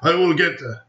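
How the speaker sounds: high, slow put-on British accent; a hammed-up posh British voice; mock British accent, stretched out slowly. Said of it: "Now I have to do it in British accent".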